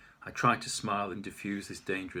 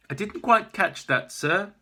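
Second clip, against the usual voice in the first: higher, louder slow query; puzzled officer; 10 semitones higher, 9 dB louder, slower than usual. Acted. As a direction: lean in, baffled. Officer failing to hear.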